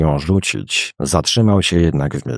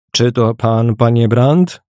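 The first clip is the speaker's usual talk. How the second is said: hesitant question, pitched a little higher; wahanie; 5 semitones higher than usual. A narrator's reading. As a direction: ask it with a touch of uncertainty. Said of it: "W głosie wyczuć można było wahanie". (pytanie z lekkim wahaniem)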